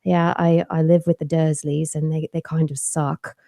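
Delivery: put-on understated, normal boy's voice; Harry. Mother demonstrating her hero's voice, understated and normal. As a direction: keep it ordinary, a light character touch. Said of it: "just got a normal kind of".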